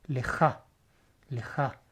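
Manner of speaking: "leja" with a j sound, scraped in the throat; throaty j sound. Shown as a demonstration. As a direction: say "leja" with a guttural j as its middle consonant. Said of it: "Con sonido de j".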